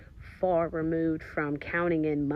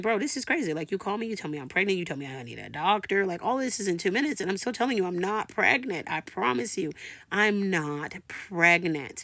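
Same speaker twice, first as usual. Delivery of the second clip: retold flustered pushback; pressured protest; 3 semitones higher than usual. Patient arguing with the nurse on the phone, pressured protest. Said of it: "I'm feeling a little pressured".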